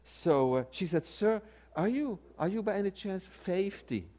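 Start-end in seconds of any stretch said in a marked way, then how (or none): 1.0-4.1 lightly imitated Southern "fifty", said "FAY-fty"; hesitant, polite Southern bank lady; Southern dialect. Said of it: "I know Southern dialect".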